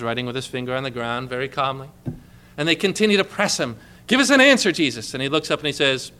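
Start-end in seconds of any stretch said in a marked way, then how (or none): 4.1-5.1 pressing demand. Acted. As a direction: push the demand hard. Pharisees press him again.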